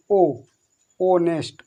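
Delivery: ओ alone, then ऑनेस्ट with no h; silent h. Shown as a demonstration. Teacher builds the word for learners, silent h in ऑनेस्ट. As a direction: open ऑनेस्ट on a pure ओ vowel. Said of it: "एच हमारा silent रहेगा".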